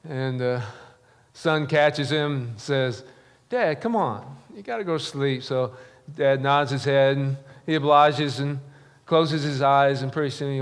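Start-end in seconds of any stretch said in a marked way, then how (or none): 3.5-5.4 higher, tender coaxing plea; gentle coaxing. Retold or imitated. Son gently coaxing his dying dad to sleep, higher and tender.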